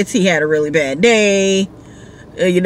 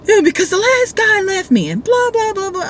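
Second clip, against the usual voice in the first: put-on drunk rider voice; 13 semitones higher than usual. Drunk rider explains last driver.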